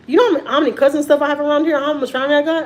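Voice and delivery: rising indignation, quick and loud; indignant outburst. Real, not acted. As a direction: fire off the question in disbelief. Indignant rhetorical question.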